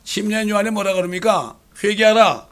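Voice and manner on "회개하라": preached call to repent. Acted. John the Baptist's call.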